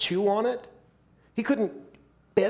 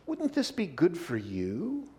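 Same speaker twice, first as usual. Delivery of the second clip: soft tempting; 5 dB quieter than usual. Acted. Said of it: "Satan tempting Eve".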